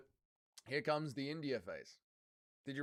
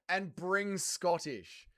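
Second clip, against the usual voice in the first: slow puzzled reread; 3 semitones higher, much slower than usual. Shown as a demonstration. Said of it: "What does that even mean?".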